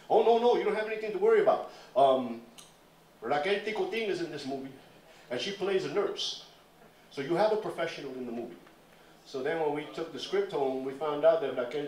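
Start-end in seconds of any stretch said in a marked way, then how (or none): 0.1-8.6 slick reassuring producer. Retold or imitated.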